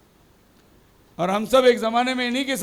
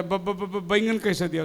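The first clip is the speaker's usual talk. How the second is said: b-b-b stammer before the word; stammering customer; 4 semitones lower, 4 dB quieter than usual. Acted. A customer stammering at the vegetable seller, mild stutter. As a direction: stutter on the first sound, softly. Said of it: "दोनों तोतला है".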